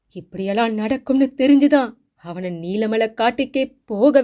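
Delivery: high, loud panicked cry of a grandmother; panicked old woman. Acted. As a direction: cry out in terror, pleading. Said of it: "பாட்டி பதறிப் போய்விட்டாள்". (பதறிய பாட்டியின் உரத்த அலறல்)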